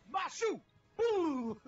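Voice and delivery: yelling at a friend; booming playful jeer; loud shout. Real, not acted.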